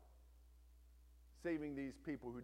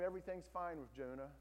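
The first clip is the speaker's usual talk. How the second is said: usual speaking voice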